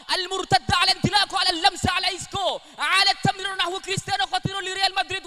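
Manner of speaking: high, loud, frantic Arabic goal call; Arab football commentator. Pretend. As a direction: rattle it off like a wild Arab commentator. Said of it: "menirukan komentator bola versi Arab".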